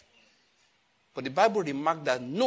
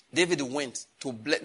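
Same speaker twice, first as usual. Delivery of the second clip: slow emphasis. Shown as a demonstration.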